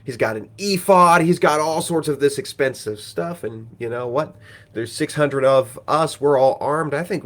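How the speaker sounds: rally the men to grab it all; eager urging. Retold or imitated. Danites urging the raid.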